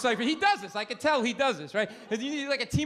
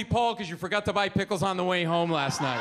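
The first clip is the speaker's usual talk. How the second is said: angry rant; 4 semitones lower than usual. Retold or imitated. Angry rant closes argument.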